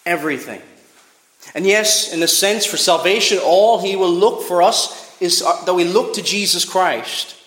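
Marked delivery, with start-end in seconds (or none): 1.6-7.3 louder, higher urgent preaching; raised preaching. Acted. Preacher urges the congregation, louder and higher. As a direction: press the point home.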